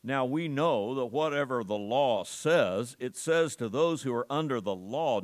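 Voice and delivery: weight the word "law" each time it comes; stress on law. Real, not acted. Preacher reading scripture to the congregation, stress on "law". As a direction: read it firmly, leaning on "law". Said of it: "notice the emphasis on that word law".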